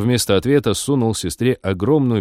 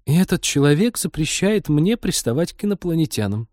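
high-pitched stunned remark; 8 semitones higher than usual. A narrator's reading. Friend reacts to the pilot's story, stunned. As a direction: say it in shocked disbelief, pitched up. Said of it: "потрясённо пробормотала Лика".

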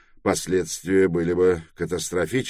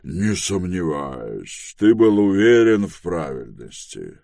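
assured elder. Acted. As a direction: start measured, then press the point. Dom's voice in dialogue.

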